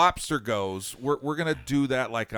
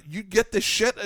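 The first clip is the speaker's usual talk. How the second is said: retold astonishment; 9 semitones higher, 8 dB louder than usual. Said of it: "I was like".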